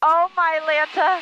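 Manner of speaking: thrilled gasp of delight; breathless with excitement; excited. Real, not acted. Passenger during aerobatic roll.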